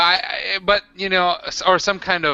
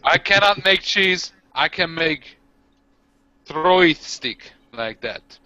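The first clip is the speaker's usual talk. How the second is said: orc voice; 3 semitones higher, slower than usual. Acted. Orc speaking broken English.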